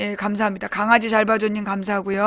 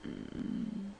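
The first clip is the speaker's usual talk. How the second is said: whispered to herself; 3 semitones lower, 25 dB quieter, slower than usual. Real, not acted. Streamer searching for something off mic, whispered aside. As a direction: breathe it out as a private aside.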